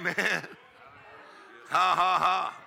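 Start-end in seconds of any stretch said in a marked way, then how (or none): 1.7-2.6 laughing. Acted. Preacher laughing in faith.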